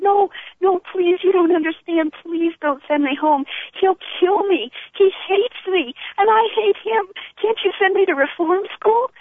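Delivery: high, pleading retelling of a tearful begging; retold crying plea. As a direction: relive the child begging not to be sent home. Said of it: "I was crying and I said".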